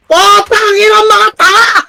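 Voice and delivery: frustrated gamer yelling curses; angry yell. Real, not acted. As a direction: blow up at the useless squad. Raging at teammates mid-game.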